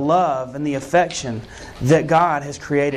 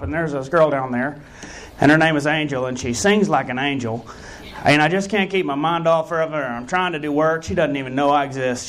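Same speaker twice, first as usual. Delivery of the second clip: Leroy. Pretend. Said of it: "pretended to be Leroy".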